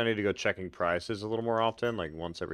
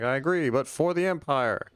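mock battle cry; 7 semitones higher, 6 dB louder than usual. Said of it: "And I'd be like".

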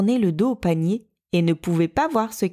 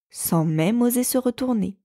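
plain reading voice

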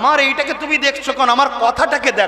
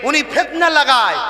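normal talking voice

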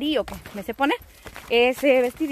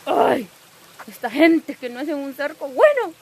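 exasperated complaint; 5 dB louder than usual. Real, not acted. Complaining after tearing her pants.

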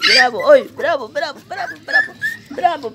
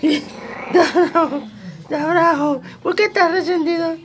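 very high, playful teasing squeal; teasing pet voice. Pretend. Owner asking a sulking puppy why it's cross, high teasing voice. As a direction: tease the pup in squeaky baby talk.

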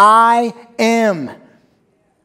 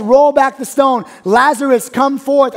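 commanding call; 7 semitones higher, 6 dB louder than usual. Acted. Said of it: "He says".

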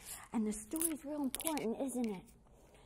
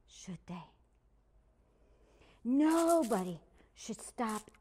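gentle lesson; slower than usual. Acted.

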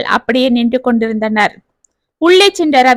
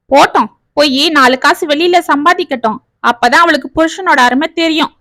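bitter grumbling; 2 semitones higher than usual. Acted. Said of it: "புலம்பிக் கொண்டிருக்க".

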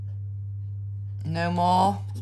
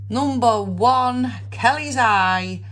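loud, slow bingo call; bingo caller; 4 semitones higher, 4 dB louder than usual. Acted. Calling bingo numbers.

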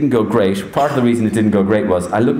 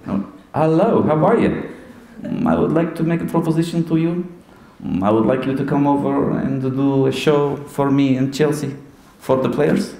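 put-on higher Portuguese-accented Mourinho voice; Portuguese manager's accent, raised pitch; Jose Mourinho impression; 4 semitones higher than usual. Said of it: "I do his voice".

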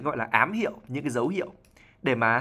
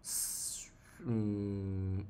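wheezy voice demo; 4 semitones lower, 12 dB quieter than usual. Shown as a demonstration. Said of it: "Một cái giọng nói".

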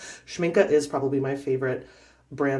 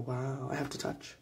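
awed murmur; 12 dB quieter than usual. Real, not acted. Awed by the paint.

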